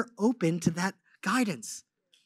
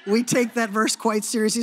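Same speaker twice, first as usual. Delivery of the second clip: laughing through the words; real laugh as he repeats the joke; 4 dB louder than usual. Real, not acted.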